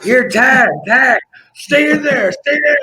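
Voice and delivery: high, loud urgent shout to a partner; panicked ringside shout; frantic yelling. Retold or imitated. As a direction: yell over the chaos to get tagged in. Yelling to tag partner mid-riot.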